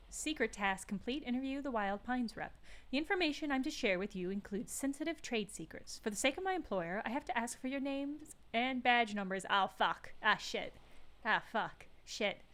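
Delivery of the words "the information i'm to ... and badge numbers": British lady negotiator. Acted.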